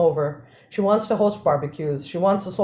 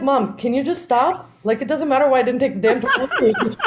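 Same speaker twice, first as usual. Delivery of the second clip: exasperated; 4 semitones higher than usual. Retold or imitated. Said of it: "And I'm like".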